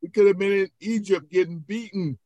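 high-pitched acted wail of protest; panicked complaint. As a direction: play a frightened Israelite blaming the leader. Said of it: "What would you be thinking".

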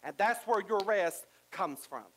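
rising sermon cadence building to fervor; preaching. Acted. Preacher urging the church to surrender. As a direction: preach it to the congregation.

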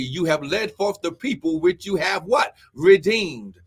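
declaimed scripture reading in punched phrases; preaching. Real, not acted. Preacher reading Exodus to the church, declaimed preaching. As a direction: proclaim the verse to a congregation.

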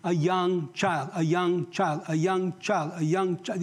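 put-on YOUNG CHILD drummed in slowly, evenly; deliberate, drawn-out stress on "young child"; repeated emphasis. Shown as a demonstration. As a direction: hammer home "young child" by slow, identical repeats. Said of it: "Luke is gonna emphasize".

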